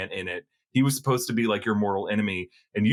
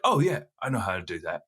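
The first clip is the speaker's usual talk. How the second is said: low, muttering Tom Hardy take; Tom Hardy impression; 5 semitones lower than usual. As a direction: drop into a gruff movie-star voice. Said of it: "he's gonna be like".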